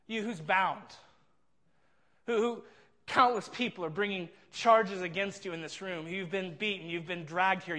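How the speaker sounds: mock the bound prisoner with contempt; emphatic mocking. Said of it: "emphatic kind of mocking phrase".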